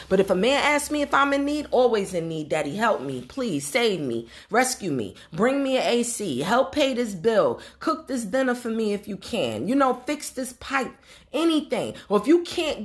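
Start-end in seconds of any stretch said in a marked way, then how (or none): 2.5-10.9 damsel in distress. Pretend. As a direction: beg daddy to rescue you, half-joking. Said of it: "I am the damsel in distress".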